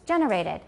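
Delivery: "generated" stressed on GEN; "GENerated", first syllable strong. Shown as a demonstration. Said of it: "put the stress on the second syllable".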